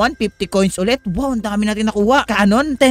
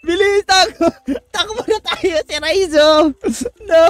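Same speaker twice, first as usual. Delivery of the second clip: panicked shouting; 10 semitones higher, slower than usual. Real, not acted. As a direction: yell in a frantic hurry. Seeker chosen, panic fleeing. (natatarantang sigaw)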